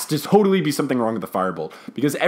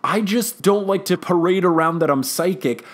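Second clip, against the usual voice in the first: hesitant, higher-pitched cover story; mock flustered; 3 semitones higher than usual. Psychic professor excusing herself to colleague, mock flustered. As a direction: bluff through it as if caught out.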